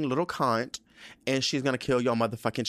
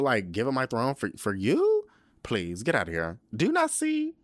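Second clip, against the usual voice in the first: mock diva scorn; 3 semitones higher, faster than usual. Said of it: "she's like".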